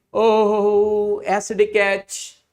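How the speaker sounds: lightly voiced pleading suitor, slow; voicing a lovesick base. Teacher voicing the base begging the acidic H, lightly pleading. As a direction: coax it in like a mild lovesick plea. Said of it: "So this base will say".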